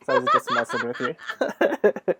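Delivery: amused, laughing apology. Real, not acted. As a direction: chuckle through "so I was just messing with you". Laughing after teasing question.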